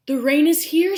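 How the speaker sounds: rhino calls out, loud and high. A narrator's reading. Rhino loudly tells everyone rain is here. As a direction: announce it with a big voice.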